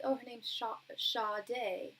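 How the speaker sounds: a hint of British accent, the name said as SHAH-day; mom's British accent. Quoting her mother teaching the name, light British accent. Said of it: "my mom has a British accent".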